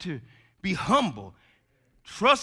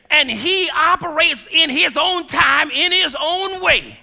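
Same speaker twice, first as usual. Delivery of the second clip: climbing higher and louder, slowing to a shout; preaching build; 9 semitones higher, 8 dB louder than usual. Acted. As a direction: build the sermon to a cry.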